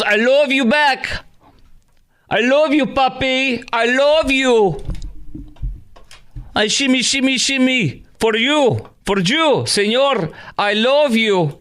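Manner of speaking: high, drawn-out mock Latina accent; Kamala with fake Hispanic accent. Host mimicking her greeting to a crowd, high hammed-up Hispanic accent. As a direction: gush it in a squealed Hispanic accent. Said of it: "these Kamala, uh, accents".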